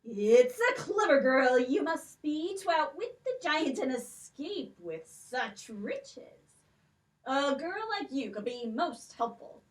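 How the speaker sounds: put-on a stately old king with a lilt, questioning; king's voice. King questions the girls about the stolen necklaces, stately.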